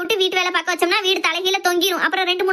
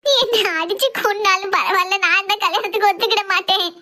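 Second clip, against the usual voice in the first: tearful defiance. Acted. Daughter refuses the marriage even if beaten, tearful and defiant. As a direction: refuse through tears, stretching the words. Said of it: "தரையில படுத்து அழுதுட்டு கிடக்கா".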